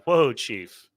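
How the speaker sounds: light Cajun drawl; Cajun accent. Acted. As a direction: say it with a Cajun twang. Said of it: "in a Cajun accent, we're gonna say".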